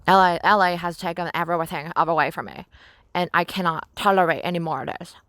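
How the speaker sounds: dramatic cartoon princess whine; Lumpy Space Princess voice. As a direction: complain like a spoiled cartoon princess. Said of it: "I said in Lumpy Space Princess voice".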